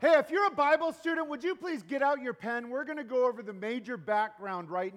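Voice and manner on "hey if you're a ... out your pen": louder, higher, fast call to attention; loud, quick callout to the students. Real, not acted. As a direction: grab the room's attention quickly. Calling Bible students to attention.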